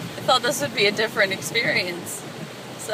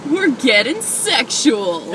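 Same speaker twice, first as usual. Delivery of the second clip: laughing; 4 dB louder than usual. Real, not acted. Joke said through laughter.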